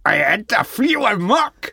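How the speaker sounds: high, loud attempt at Northern Irish. Retrying the rock star's question, hammed-up Northern Irish accent. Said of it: "that's a northern Irish accent".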